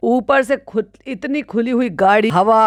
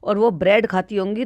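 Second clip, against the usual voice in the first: usual speaking voice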